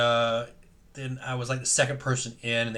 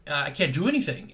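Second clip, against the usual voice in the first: exasperated; 5 semitones higher than usual. Retold or imitated. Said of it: "And I'm like".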